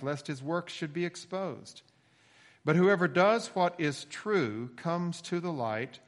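measured, emphatic Bible reading; scripture reading. Acted. Pastor continues reading in verse seventeen, solemn scripture reading. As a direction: read scripture aloud, lifting the start of each verse.

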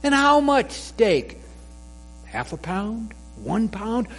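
high, rising shopkeeper voice; playful butcher, loudest on steak; butcher asking. Acted. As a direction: list the meats brightly, building to steak. Butcher asks the dog.

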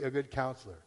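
"good" given emphasis before "counselor"; stress on "good". Real, not acted. Pastor listing who can help, stress on "good". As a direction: lean on the word "good" in "a good counselor". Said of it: "Emphasis on the word good".

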